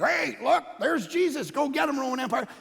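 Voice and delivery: lightly acted passerby hailing soldiers; a casual mock call-out, lifted in pitch. Truck driver pointing out Jesus to Romans, calling out.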